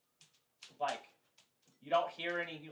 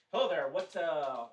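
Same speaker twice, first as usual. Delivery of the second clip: hailing; 2 semitones higher, 8 dB louder than usual. Acted. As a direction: hail the crew as you step aboard. Elven soldier hails the boarded crew.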